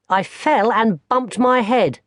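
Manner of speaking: put-on high, slow little-boy voice; a young boy explaining; small boy. Barney tells his grandmother about his fall, high little-boy voice.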